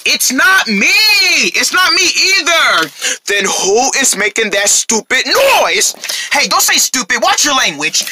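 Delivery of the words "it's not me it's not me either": high, shouted denial. Acted. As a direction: protest your innocence at full voice. Friends loudly deny making noise.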